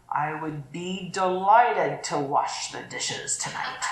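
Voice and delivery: slow, sour put-upon offer; reluctant sarcastic offer; grudging tone. Shown as a demonstration. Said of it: "tend to hear the tone of our voice".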